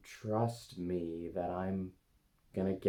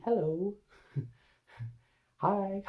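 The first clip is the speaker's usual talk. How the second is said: gentle high greeting; 12 semitones higher, much slower than usual. Real, not acted. Greeting the anxiety part gently.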